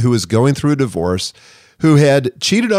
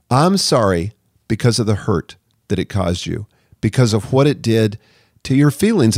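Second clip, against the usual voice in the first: sincere apology. Shown as a demonstration.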